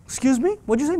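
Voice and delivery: put-on a parent daring the kid to repeat it; mom demanding.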